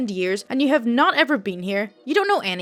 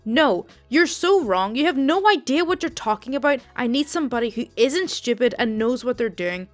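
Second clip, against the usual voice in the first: louder, mock-furious old lady; angry customer; 4 dB louder than usual. Rude old customer insults the call center agent, loud and angry. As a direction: snap at the agent, lightly voiced old Italian woman. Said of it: "elderly Italian lady and clearly a smoker from her voice".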